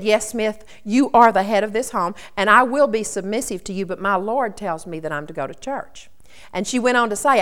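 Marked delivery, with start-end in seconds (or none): 0.0-6.1 a gentle wife holding her ground calmly. Retold or imitated. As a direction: answer him with no heat at all. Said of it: "Polly very calmly said".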